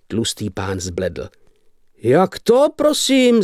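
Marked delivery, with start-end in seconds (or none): 2.0-3.4 high, squeaky squeal of shock. A narrator's reading. Fat shopkeeper squeals at the barber over money. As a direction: squeal it like a startled pig. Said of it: "zakvičel".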